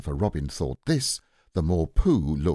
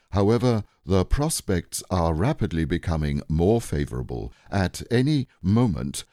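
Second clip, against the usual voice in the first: louder, self-important lecturing; pompous Owl; 4 dB louder than usual. Acted. Owl lecturing on the flood, pompous and emphatic. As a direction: hold forth like a learned owl.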